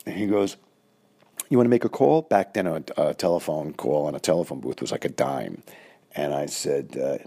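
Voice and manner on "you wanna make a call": high-pitched voice. Retold or imitated. Coach voice again in story.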